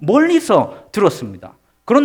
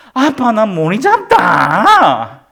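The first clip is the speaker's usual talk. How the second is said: put-on fed-up, insistent four-year-old voice; 2 semitones higher, 5 dB louder than usual. A father retells his four-year-old's repeated complaint to him, imitating an annoyed child. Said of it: "이렇게 짜증을 내기".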